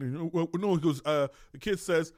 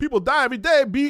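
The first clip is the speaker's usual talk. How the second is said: bad put-on voice, very high, very loud; 9 semitones higher, 10 dB louder than usual. Imagining what people tell kids, the speaker does a bad Cameron impression. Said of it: "that was a bad impression of Cameron".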